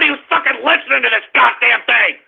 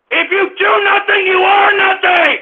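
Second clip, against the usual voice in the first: angry shout; 4 semitones higher than usual. Real, not acted. Host hammers his maxim at idle listeners, shouting. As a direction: yell the maxim in real exasperation.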